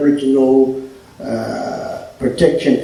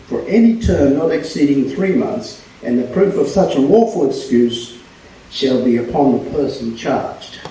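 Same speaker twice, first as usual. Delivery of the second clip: formal reading. Acted. Reads an act aloud.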